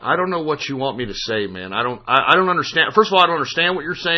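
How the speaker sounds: low, quiet resignation; mumbled, subdued confusion; weary bafflement. Real, not acted. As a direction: drop right down, soft and low. Worn down by confusing argument.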